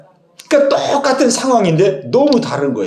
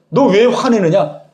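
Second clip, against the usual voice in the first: measured, lightly acted reproach; mild rebuke. Preacher voicing God reproving Cain, mild rebuke. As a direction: question him firmly, then urge self-examination. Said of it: "지금 가인에게 이렇게 지금 책망하고 있어요".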